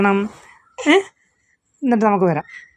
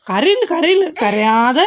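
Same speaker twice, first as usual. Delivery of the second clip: high, soothing repeated hush; 5 semitones higher, slower than usual. Real, not acted. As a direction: soothe her out of crying. Calming crying child.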